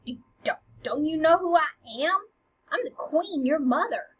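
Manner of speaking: acted affront with rising endings; taken aback. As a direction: sputter at the disrespect. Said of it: "taken aback by all this sass".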